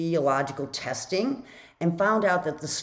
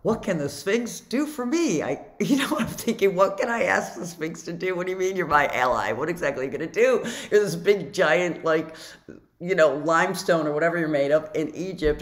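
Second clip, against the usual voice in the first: sceptical inner voice; 2 semitones higher than usual. Acted. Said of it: "the human me is like".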